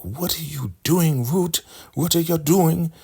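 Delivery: high-pitched mock-indignant questioning; alarmed challenge. Elder Mother confronting Ruth over the foot washing, high-pitched alarm.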